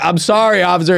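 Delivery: high, mock-helpless apology; pleading apology. Guy caught peeing apologizes to officer, high mock plea.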